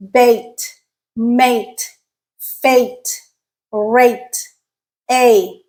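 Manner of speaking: bait, mate, fate, each clearly apart; A sound examples. Shown as a demonstration. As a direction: separate model words sharing the A of bait. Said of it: "that is the A sound".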